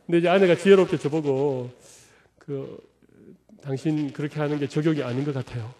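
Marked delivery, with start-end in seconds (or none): 2.4-5.7 soft, mild wife's suggestion; a gentle nudge to the husband; gently. Retold or imitated. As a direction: say it tenderly, without blame. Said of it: "이렇게 부드럽게".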